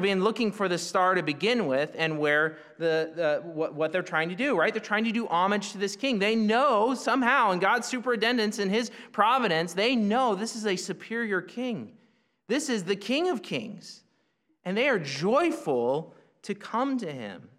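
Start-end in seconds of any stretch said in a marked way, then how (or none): none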